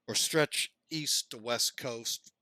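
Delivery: through a yawn. Real, not acted. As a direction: speak while yawning. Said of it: "I don't know why I keep yawning".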